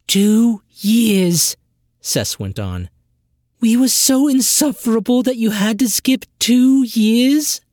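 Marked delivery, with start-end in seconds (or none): 0.1-1.6 Two punched high and loud, falling; stress on two. Acted. Sister stresses Two loudly and high. Sess stresses the time lost. 3.6-7.6 high, loud disbelieving rise; incredulous outburst. Acted. Sister demands high and loud about two lost years.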